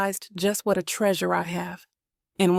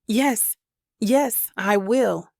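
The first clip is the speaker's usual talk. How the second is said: tearful joy; 2 semitones higher, much slower than usual. Acted. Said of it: "Now my tears are from happiness".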